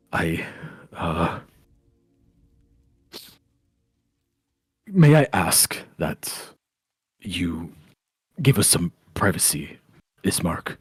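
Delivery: halting, careful, polite request; mild apologetic hesitancy; hesitant Erwin. Acted. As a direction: pick your words awkwardly, with long pauses.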